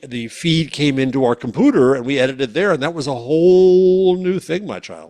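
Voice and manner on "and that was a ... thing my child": put-on old-timer voice. Mock old-timer reminiscing.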